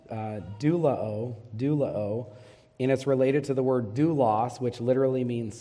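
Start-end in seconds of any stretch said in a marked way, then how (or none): 0.6-2.3 doulao said slowly as "doo-lah-oh", stress on the first syllable; Greek doulao. Shown as a demonstration. Pastor teaching the Greek word, doulao said slow and careful. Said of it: "it's pronounced".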